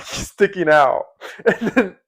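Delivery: cracking up mid-anecdote; laughing while talking. Real, not acted. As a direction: voice climbing high with giggles. Cracking up retelling funny video.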